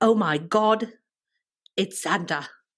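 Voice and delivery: put-on very slow, drawn-out British accent. Speaker retells a woman's reaction in a story set in England, British accent. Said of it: "That was my British accent".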